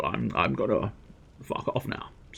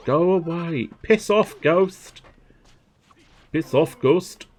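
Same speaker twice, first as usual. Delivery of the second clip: higher-pitched, poor Korg imitation; put-on higher Korg voice; bad Korg impression; 7 semitones higher, 4 dB louder, much slower than usual. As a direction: attempt Korg shooing off a ghost. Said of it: "I can't do an impression of Korg".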